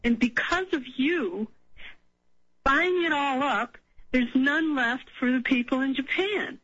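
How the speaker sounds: mock accusation, pitch lifted, no shout; retold yelling. Caller quoting a radio guest's rant at iodide buyers, mild mock yell. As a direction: imitate someone blaming a crowd, slowing on the charge. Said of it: "literally yelling at people".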